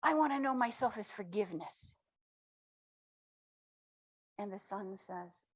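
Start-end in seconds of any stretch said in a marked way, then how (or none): 0.0-2.0 bright eager cry, pitched higher; a small soul bursting with a new idea; excited little soul. Acted. Little soul telling the sun its wish, excitedly. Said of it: "the little soul gets so excited and says".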